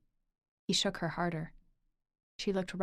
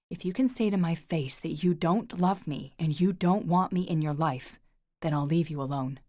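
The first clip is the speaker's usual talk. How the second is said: 1 pleading; 5 dB louder than usual. Acted. Lorcan pleads, pinning Orla.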